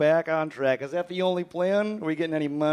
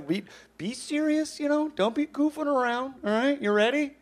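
mock stern; 10 semitones higher than usual. Mock stern host warning guest.

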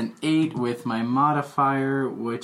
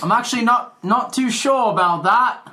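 squeaky character voice; 9 semitones higher, 6 dB louder than usual. Acted. Gnome character voice.

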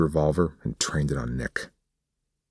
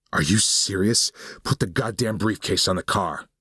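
higher, snapping with disbelief; exasperated; 6 semitones higher than usual. Acted. Nick to Olsen over the briefcase: exasperated, higher. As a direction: lose patience with this smug man. Gunman loses patience with captive.

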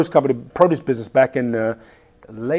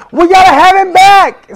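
producer's voice much higher and louder, thrilled; imitating the producer; 9 dB louder than usual. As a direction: gush like an excited TV producer. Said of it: "I hear the producer going".

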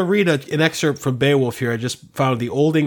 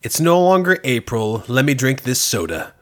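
mock translation. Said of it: "You said".

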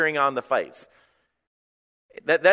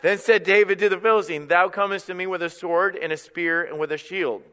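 scripture read again, higher and pressed home; emphatic re-reading; 4 semitones higher than usual. Real, not acted. Preacher rereads the verse to the congregation, emphatically. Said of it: "I'm gonna read it again".

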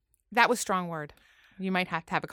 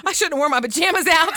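laughing; 8 semitones higher, 6 dB louder than usual. Retold or imitated. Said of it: "He's like".

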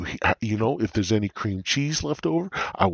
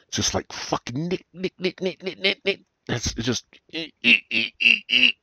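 high, tiny chattering voice, much higher; squeaky head voices; 11 semitones higher than usual. Retold or imitated. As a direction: mimic the nagging voices in his head.

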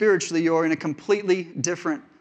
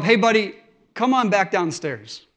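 put-on loud call up to a child upstairs; yelling up the stairs; 3 semitones higher, 4 dB louder than usual. Father calling his son back downstairs, loud. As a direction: shout it up the stairwell to him. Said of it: "I yell up".

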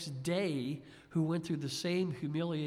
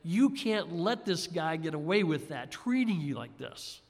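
loud angry thought; 4 dB louder than usual. Retold or imitated. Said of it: "I had this very loud thought".

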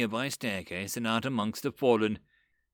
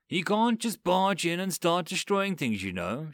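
reproachful; 4 semitones higher than usual. Acted. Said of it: "she said, uh, reproachfully".

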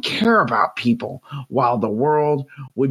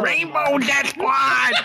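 laughing shout; 12 semitones higher, slower than usual. Real, not acted. Laughing shout of clan name.

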